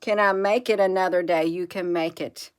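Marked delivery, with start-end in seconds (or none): 0.0-1.4 despairing thought. Acted. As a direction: drag out how on earth in despair. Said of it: "and you're thinking".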